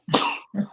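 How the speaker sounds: sudden stifled sneeze; a real sneeze caught mid-sentence; sneezing. Real, not acted. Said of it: "I'm gonna sneeze".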